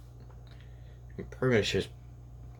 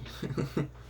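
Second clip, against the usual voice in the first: imitated laughing; 6 semitones higher, 6 dB quieter than usual. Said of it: "in his mind are just laughing".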